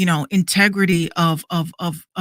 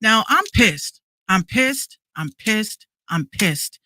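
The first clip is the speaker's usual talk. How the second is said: real anger, higher, in short separate bursts; pissed off; 3 semitones higher, slower than usual. Real, not acted. Podcaster opening a rant at mocking journalists, pissed off. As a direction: vent it, pausing after each outburst. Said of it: "I'm angry at these fucking journalists".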